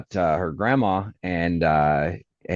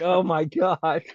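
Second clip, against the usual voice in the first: slow mortified; 8 semitones higher, slower than usual. Retold or imitated. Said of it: "I was like".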